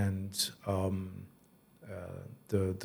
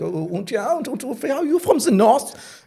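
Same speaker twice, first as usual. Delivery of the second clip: put-on much higher, in a German accent; German girl's voice; 5 dB louder than usual. The German girl asking where he is from, in a high German accent. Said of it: "it was like".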